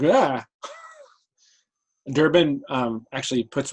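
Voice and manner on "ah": quick, higher-pitched "ah" of alarm; mock yelp for a startled group; startled cry. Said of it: "everybody's like".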